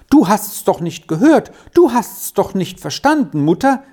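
put-on loud, high, upset child's cry. A narrator's reading. Sally cries out to her mother in alarm. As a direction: protest in alarm. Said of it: "rief das Kind".

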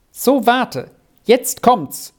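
high, excited heads-up; promising shout. A narrator's reading. Squirrel announces the surprise to Arthur, shouting promisingly. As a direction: call out that something great is coming. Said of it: "schrie Squirrel verheißend".

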